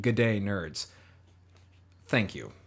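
lightly Australian greeting; Australian accent. Retold or imitated. Host quoting an Australian listener's email greeting, lightly Australian accent. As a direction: quote it with a touch of Australian. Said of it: "I could sound really Australian".

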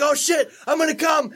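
hammed-up climax yell; mock ecstatic shout. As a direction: shout it like you're losing control. Retelling his own climax.

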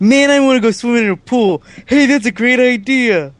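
bad British accent. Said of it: "I don't think that's your best British accent".

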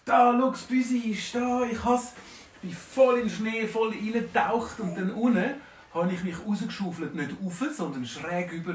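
high, loud excited report. Acted. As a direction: burst out triumphant and breathless. Dwarf emerges excited.

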